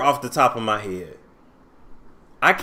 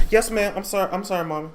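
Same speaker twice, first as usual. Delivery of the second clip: meek apology; 2 semitones higher, 5 dB quieter, much faster than usual. Retold or imitated. Trina answering mama meekly.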